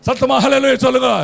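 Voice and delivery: quick, emphatic call to the congregation; rally the crowd to praise loudly; rousing call. Real, not acted. (உற்சாகமான உரத்த அழைப்பு)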